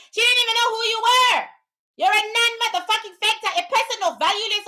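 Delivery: shouted put-down of a viewer; angry shout. Real, not acted. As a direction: yell the insult at the viewer. Berating a chatter.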